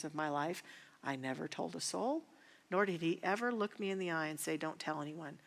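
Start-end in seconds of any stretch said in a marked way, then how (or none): 4.6-5.4 hushed whisper, Don't tell anyone; whispered warning. Retold or imitated. Father warning his child to keep silent, whispered. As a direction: breathe it as a secret threat. Abuser's threat quoted in whisper.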